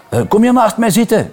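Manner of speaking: put-on high, eager girl's call; excited schoolgirl calling across the room. A narrator's reading. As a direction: call out like a little girl. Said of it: "riep een meisje".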